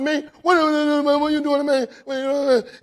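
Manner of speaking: loud, high demanding what; retold loud confrontation; confronting son. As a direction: call out a son in anger. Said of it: "I said".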